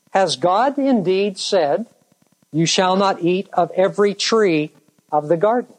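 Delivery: insinuating doubt. Acted. Serpent slyly questioning God's word to the woman, insinuating doubt. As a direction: subtly cast doubt, drawing out the question. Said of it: "enough of a tone, enough of an inflection".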